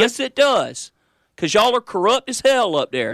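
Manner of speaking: high, gleeful gloat. Real, not acted. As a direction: rub it in gleefully. Gloating at co-host.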